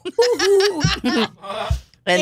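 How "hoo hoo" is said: silly hoot. Pretend. Mock swinger greeting at switch.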